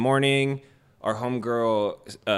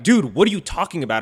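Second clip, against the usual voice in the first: higher, louder disbelieving retort; incredulous outburst; 6 semitones higher, 5 dB louder than usual. Retold or imitated. Retelling the guard argument, a raised incredulous retort. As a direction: toss it back at him, baffled.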